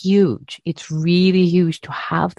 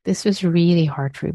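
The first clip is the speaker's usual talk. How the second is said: gentle self-compassion; 3 semitones higher than usual. Retold or imitated. A teacher modelling kind self-talk, gently tender. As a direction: comfort yourself like a dear friend.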